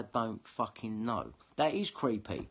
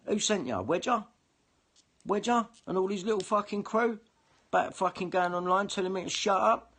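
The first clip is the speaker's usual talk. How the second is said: high, loud furious tirade at the police; angry rant; 8 semitones higher, 4 dB louder than usual. Real, not acted. Calling out police and enemies, high loud angry rant. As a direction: let it all pour out in rising fury.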